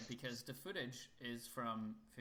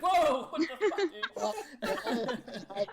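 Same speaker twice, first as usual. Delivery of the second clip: startled whisper; 13 semitones higher, 14 dB louder than usual. Retold or imitated. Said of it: "And you're like".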